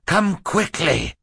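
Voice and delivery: high, drawn-out urgent call; feigned frightened cry. A narrator's reading. Boy hiding laughter, calls adults in mock-frightened cry. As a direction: summon help with put-on fright. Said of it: "His voice was rough and low".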